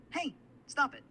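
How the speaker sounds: high, loud hey, stop it; acting tickled. Assistant asked to act laughing, high loud protest. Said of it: "Just act like you're laughing".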